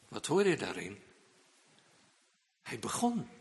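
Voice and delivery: usual speaking voice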